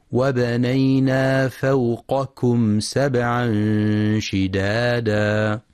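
in فوقكم raise the qaf, then a light aspirated kaf; distinct qaf and kaf. Shown as a demonstration. Teacher showing the correct reading, slow recitation with distinct q and k in فوقكم. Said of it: "يقرأ القاف باستعلاء ثم الكاف باستفال وهمس".

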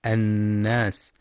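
الناس with a long humming nasal on the doubled n; full nasal ghunna. Shown as a demonstration. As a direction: hold the nn in الناس. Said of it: "للغنة في النون المشددة".

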